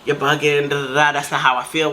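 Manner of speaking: low, settled voice imitating a soother; calming. Friend calming her down when she acts crazy, retold calmly. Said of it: "he'll calm me down".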